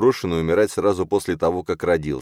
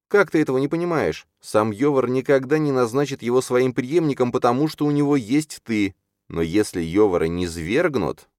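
high, urgent character voice; urgent Чарна; 9 semitones higher than usual. Acted. Чарна stops Юрген to warn about Йовар, urgent. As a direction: make the case earnestly, pitched well up.

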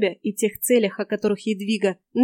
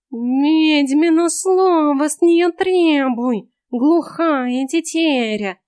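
slow, hissed cat voice, high; hissing cat; 6 semitones higher, 7 dB louder, much slower than usual. A narrator's reading. Cat hisses a tip to the heroine, slow and hissing. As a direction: hiss it out like a sly cat. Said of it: "на грани слышимости прошипел кот".

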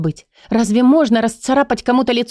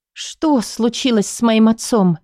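slow, hollow-sounding question; strange altered voice; 2 semitones higher than usual. Acted. Patient asking about her father, slowed and shaken. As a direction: ask it as if the voice is not your own. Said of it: "спрашиваю не своим голосом".

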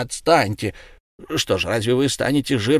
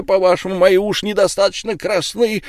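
ordinary delivery, nothing marked

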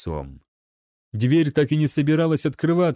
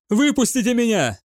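panicked shout; 9 semitones higher than usual. Acted. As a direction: beg through the door. Gaunt hammers on door. (отчаянный крик)

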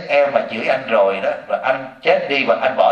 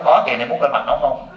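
laughing reply. Retold or imitated. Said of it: "tôi nói".

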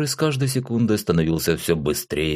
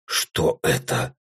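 изумлённо; 7 semitones lower, much slower than usual. A narrator's reading. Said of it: "изумлённо посмотрел я".

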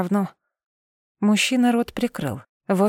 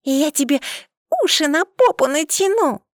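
put-on a small girl boldly threatening a man; bold child; 8 semitones higher than usual. A narrator's reading. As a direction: declare it bravely like a tiny girl. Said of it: "смело заявила эта пигалица".

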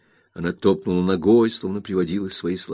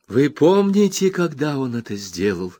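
Rosa, furious; 7 semitones higher, 3 dB louder than usual. A narrator's reading. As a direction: hammer each word into the mother. Rosa goes on. (Роза в ярости бросает обвинение матери)

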